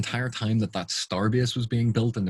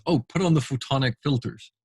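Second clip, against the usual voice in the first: mock casual order; 4 semitones higher than usual. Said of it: "And then the captain says".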